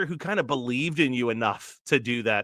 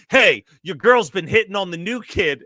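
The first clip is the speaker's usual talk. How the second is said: mock confrontational; 3 semitones higher, 6 dB louder than usual. Other kid confronts Meg's boyfriend about her crush, mock confrontational. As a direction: call out a challenge, playing another student. Rival kid's taunt in retold short.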